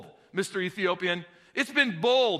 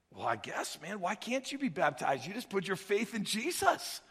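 easy reply; 8 dB quieter than usual. Retold or imitated. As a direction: shrug it off gently. Philip answers calmly.

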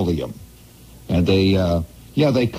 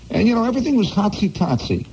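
rising storyteller excitement; 8 semitones higher than usual. Real, not acted. Storyteller builds ominous joke.

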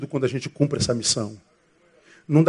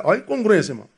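ordinary talk, nothing marked

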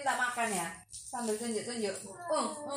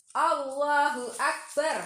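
slow recitation; 4 semitones higher, 6 dB louder, slower than usual. Shown as a demonstration. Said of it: "Kita ucapkan".

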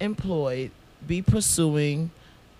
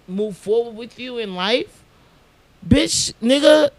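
mock whiny plea; 3 semitones higher, 6 dB louder than usual. Mocking a needy partner.

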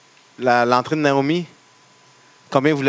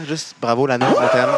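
mock cheer. Cheering Lana at the podcast.

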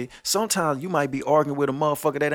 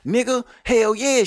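drawn-out, higher incredulous hell yeah; emphatic hell yeah; 10 semitones higher than usual. Real, not acted. Ranting to deadbeat dads, a drawn-out emphatic yeah. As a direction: stretch it out like it's obvious. Ranting about the angry baby mama.

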